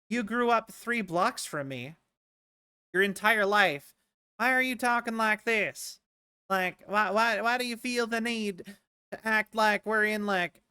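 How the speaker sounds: exasperated, lightly put-on Southern accent; fake Southern accent. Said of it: "have, like, a fake Southern accent".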